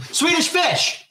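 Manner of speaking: high, drawn-out mock scream; imitated scream. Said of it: "somebody screamed".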